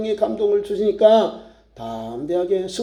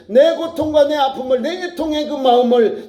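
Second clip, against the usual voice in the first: raised, insistent preacher's cadence; fervent preaching; 7 semitones higher than usual. Real, not acted. Preacher urging tearful prayer for families, fervent exhortation. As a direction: drive each phrase on in urgent exhortation.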